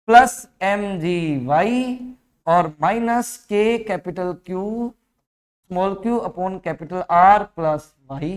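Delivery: spells out the equation very slowly, term by term; slow dictation. Acted. Teacher dictating the energy equation to students, slow and measured. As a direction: dictate each term so students can write.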